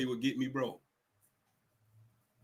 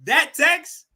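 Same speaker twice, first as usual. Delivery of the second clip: laughing; 9 semitones higher than usual. Real, not acted. Laughing at own point about texts.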